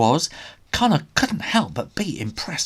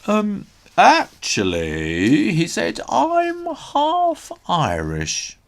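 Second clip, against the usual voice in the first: nervous bluff; 6 semitones higher, 4 dB louder, slower than usual. Acted. Connor bluffs, slow odd voice.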